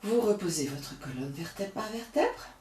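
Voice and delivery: calm, unhurried yoga guidance; soothing yoga teacher talking students through the breaths; guided yoga breathing. Acted. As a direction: lead the class gently through each breath.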